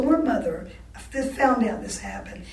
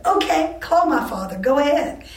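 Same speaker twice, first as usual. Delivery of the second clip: higher, louder dare; defiant; 5 semitones higher, 5 dB louder than usual. Retold or imitated. Student daring the dean to call her father, defiant. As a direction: throw the dare back at him. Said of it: "then I spoke up".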